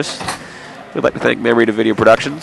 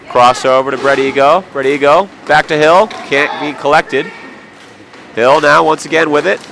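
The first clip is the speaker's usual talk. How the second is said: excited play-by-play; 5 semitones higher than usual. Real, not acted. Live hockey play-by-play.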